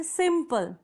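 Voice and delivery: सिंपल with both syllables sounded, sim-pul; syllable demo. Shown as a demonstration. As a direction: stretch सिंपल to show each vowel. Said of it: "ई यहाँ sound कर रहा है". (सिंपल को सिम-पल, साफ़ हिस्सों में बोलें)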